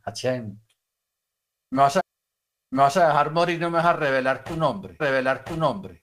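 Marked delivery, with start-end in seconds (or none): 1.7-6.0 pleading prayer, raised in pitch; insistent plea. Retold or imitated. Old man begging Hachem for the name, insistent plea. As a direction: imitate an insistent plea to God. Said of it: "Y él insistía, insistía".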